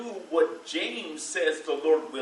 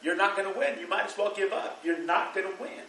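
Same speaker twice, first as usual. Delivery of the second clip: mock gentle tone; 4 semitones higher than usual. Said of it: "in a gentle tone of voice".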